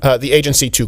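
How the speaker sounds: usual speaking voice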